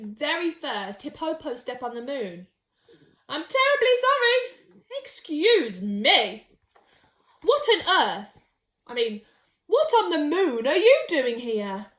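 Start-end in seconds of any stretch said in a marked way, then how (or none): 3.3-11.9 surprised apology. Acted. Sheila lands on another hippo.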